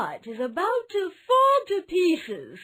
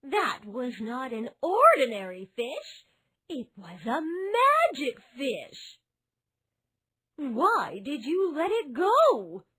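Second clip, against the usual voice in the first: angry scolding wife. A narrator's reading. Wife keeps shouting at her foolish husband, high. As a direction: keep scolding him hard. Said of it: "she continued to shout".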